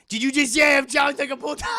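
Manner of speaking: mock offended squeal. Mock offended chat member.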